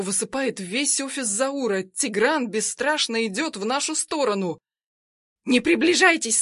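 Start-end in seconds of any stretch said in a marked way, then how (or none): 5.4-6.4 high, loud warning cry; shout. Acted. Armed woman yells at approaching guards, loud and high. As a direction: scream at them to keep away. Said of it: "сказала".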